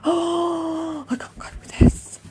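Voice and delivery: high, panicky self-quote; imitating her own motorway panic; panicked. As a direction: squeal it like you're lost in traffic.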